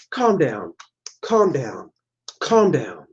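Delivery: mock Airplane calming. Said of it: "Like in the movie Airplane".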